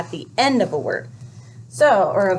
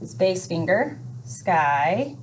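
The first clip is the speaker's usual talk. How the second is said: spacing demo; 5 dB quieter, much slower than usual. Shown as a demonstration. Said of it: "So then we go".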